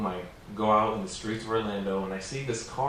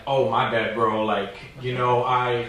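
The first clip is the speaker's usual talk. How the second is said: nervous backing down; 3 semitones higher, 5 dB louder than usual. Retold or imitated. Backing down from armed carjacker.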